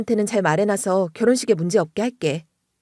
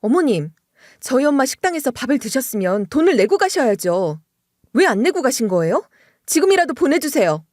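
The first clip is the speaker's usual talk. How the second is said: firm complaint; 3 semitones higher than usual. Retold or imitated. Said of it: "엄청 뭐라고 했어요".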